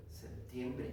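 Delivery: soft, low gloss; hushed echo in Spanish; translation aside. Shown as a demonstration. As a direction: drop right down to give the translation. Softer translation after drill call.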